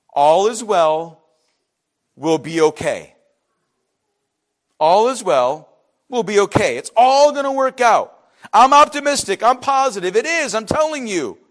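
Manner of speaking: mock smug reassurance, all is well; complacent people. Preacher mocking the complacent nation, smug reassurance. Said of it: "You know what they were saying?".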